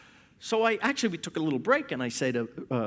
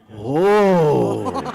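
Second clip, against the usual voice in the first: awed oh; 4 semitones lower, 8 dB louder than usual. Retold or imitated. Ladies react in awe.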